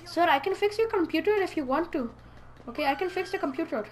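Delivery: put-on lightly done Indian accent. Player voicing a computer-fixer to a game character, Indian accent. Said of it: "I have to do an Indian voice".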